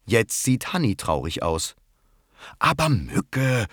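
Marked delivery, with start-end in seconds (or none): 2.6-3.7 soft scolding. Acted. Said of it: "schimpft Rosi leise".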